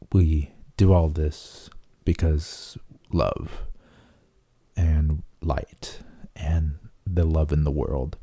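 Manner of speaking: very slow, drifting into a whisper; retold inner voice, hushed and slow; slow mystical whisper. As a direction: speak it like a ghost in his head. Lews Therin speaks up, mystical.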